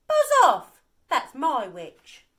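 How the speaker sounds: frighten the dragon away; monster roar. A narrator's reading. Beast scares off dragon.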